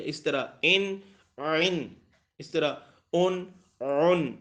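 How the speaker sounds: ان straight, then عین and اون squeezed in the throat; ain contrast demo. Shown as a demonstration. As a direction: show straight then folded. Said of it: "آواز تھوڑی سی fold ہو جاتی ہے".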